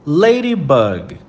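ladybug said slowly, LAY-dee-bug, each syllable clear; English ladybug. Shown as a demonstration. Teacher modeling the English word for students, slow and clear. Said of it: "lista com a letra L".

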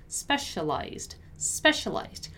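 "specialized" said alone, carefully enunciated; "specialized" slowly and clearly, with a falling end; pronunciation drill. Shown as a demonstration. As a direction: model "specialized" syllable by syllable for learners. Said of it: "Let's practice the pronunciation of the word".

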